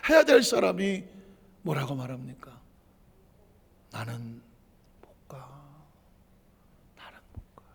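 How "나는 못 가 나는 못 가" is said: barely audible broken whisper; ashamed whisper. Pretend. Peter whispering to the disciples that he cannot go. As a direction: shrink away, too ashamed to go.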